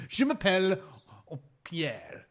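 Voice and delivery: laughing mock-French introduction; French accent. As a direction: introduce yourself in comic French.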